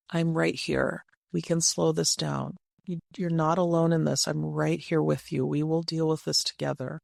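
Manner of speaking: calm, steady reassurance; soothing. Shown as a demonstration. Coach models words for a stressed spouse, soothing. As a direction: reassure an overwhelmed partner, unhurried. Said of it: "It is incredibly soothing".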